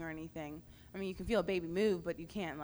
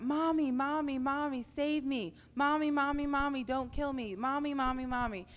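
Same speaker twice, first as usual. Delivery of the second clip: higher, louder reenacted cry of a baby begging its mother; retold desperate scream; 8 semitones higher, 5 dB louder than usual. Retelling a prayer-room vision, crying out as the unborn baby. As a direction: replay the terrified plea, not full volume. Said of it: "I started screaming out".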